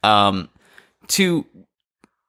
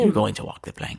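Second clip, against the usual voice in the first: mock pirate insistence; 4 dB quieter than usual. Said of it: "and you say".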